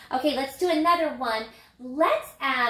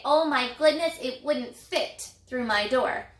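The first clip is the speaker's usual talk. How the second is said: surprised. Pretend. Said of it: "Or I could say".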